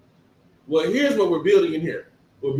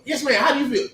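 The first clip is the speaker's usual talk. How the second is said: politely raised phone voice, a touch high; polite work voice; 6 semitones higher, faster than usual. Retold or imitated. Worker on the phone to a customer, mildly polite voice. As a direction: sweeten it for the caller. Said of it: "I don't even wanna talk like that".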